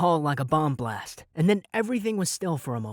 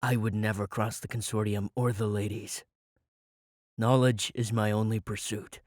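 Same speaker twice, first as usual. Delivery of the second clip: frighteningly even; 5 semitones lower than usual. A narrator's reading. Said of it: "Eric's voice was frighteningly even".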